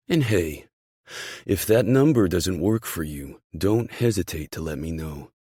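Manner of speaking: loud, emphatic parting offer; team boss. Acted. Boss at the door with an offer, loud and encouraging. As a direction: start loud and ease off.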